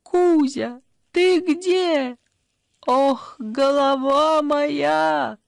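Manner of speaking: high, loud, slow hungover groan; moaning hungover mother; drunk mother calling. A narrator's reading. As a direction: call out like a wrecked drunk mother. Drunk mother calls out groggily.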